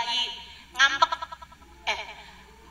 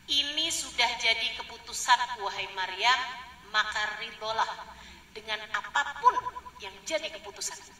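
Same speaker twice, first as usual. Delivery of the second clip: solemn decree; 3 semitones lower, 3 dB quieter than usual. Retold or imitated. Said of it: "Atau bahkan gini".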